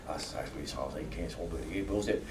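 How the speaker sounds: low-key, slurred imitation of a tipsy Newfoundlander; mock a tipsy Labrador Newfie accent; drunk Newfie. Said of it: "gets a few drinks in him".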